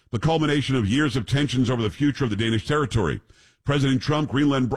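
reading a headline aloud; news read. Acted. Reads out a news story.

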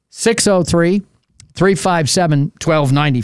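phone number slowly, in separate groups. Shown as a demonstration. Radio host repeats the phone number for callers, slowly. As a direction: pause between each group of digits. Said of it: "I'll say it again slowly".

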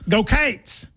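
"Go Cates" with Cats stretched to sound like "Cates"; Kentucky fan chant "Go Cates". Shown as a demonstration. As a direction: say "Cates" with a long ay vowel. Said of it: "in Kentucky would go".

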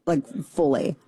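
ordinary talk, nothing marked

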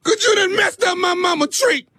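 hammed-up crying whine; fake crying. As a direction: sob out the complaint, overplayed. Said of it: "You sound like a girl".

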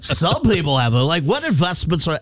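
high, far-off put-on voice of a dodging official; mocking a flustered official. Mocking the White House guy dodging a reporter's question. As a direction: squeak out an evasive non-answer. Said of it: "and he was like".

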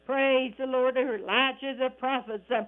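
fervent, rhythmic gospel preaching. Real, not acted. Radio preacher exhorting friends to accept Jesus, fervent preaching. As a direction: preach it in cadence, dotted with praise interjections.

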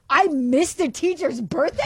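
high, incredulous question; retold dismay, voice lifting; appalled at oneself. Room mom reliving the missed teacher's birthday, appalled. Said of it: "I immediately feel so bad".

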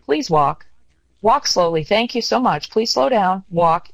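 calm on the mic. Retold or imitated. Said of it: "There is a way of saying it".

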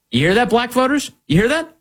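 high urgent you hear that; urgent call out. Real, not acted. Host warning Black voters, high urgent.

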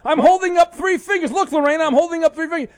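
host shouting that the caller is a fraud; furious shout. Real, not acted. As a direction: yell it like you caught a fraud. Host exposes caller's fake blindness.

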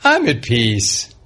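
a hint of a zen calm Gino; mock peaceful guru voice, barely put on; imitating Gino. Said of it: "I did not expect Gino to say".

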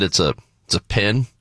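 pen said with a short i, as "pin". Retold or imitated. Speaker retelling how they answered "what's that thing", pen pronounced pin. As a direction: say "pen" so it rhymes with "tin". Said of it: "It's not a pin".

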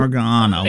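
Oregano said or-GAH-no; mock Canadian pronunciation. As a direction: echo Oregano with a broad GAH.

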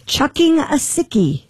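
put-on Australian, drawn out; Australian accent. Reading Aussie slang aloud.

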